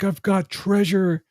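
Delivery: high, drawn-out retold announcement; mock triumph. Quoting film character's triumphant find.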